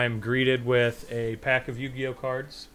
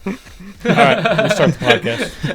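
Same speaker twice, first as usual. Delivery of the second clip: laughing; 4 semitones higher, 11 dB louder than usual. Real, not acted. Cracking up at mispronounced word.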